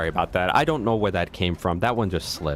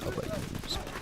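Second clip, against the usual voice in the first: tiny high voice; 10 dB quieter than usual. Acted.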